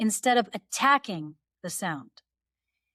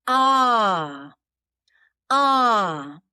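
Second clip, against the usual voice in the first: hard louder glottal ah; attacked ah; 7 dB louder than usual. Shown as a demonstration. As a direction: hit the ah with a hard start. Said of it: "Can you hear that attack".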